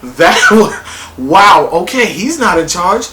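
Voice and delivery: loud, stunned whoa with a laugh; loud gasping shock, climbing high at uh-oh; shocked reaction. Retold or imitated. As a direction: react as the twist hits you. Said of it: "And I'm like".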